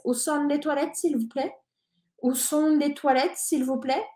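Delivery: "Où sont les toilettes, s'il vous plaît?" with silent final T and S; French model phrase. Shown as a demonstration. Teacher drills the phrase twice, clear French. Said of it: "la T no se dice al final".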